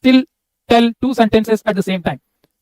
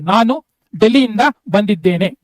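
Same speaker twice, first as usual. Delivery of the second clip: whole sentence read continuously. Shown as a demonstration. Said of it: "you need to read continuously".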